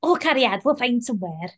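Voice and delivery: put-on light, half-hearted Welsh accent; a hint of Welsh lilt. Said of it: "Are you not gonna do Delia's Welsh accent?".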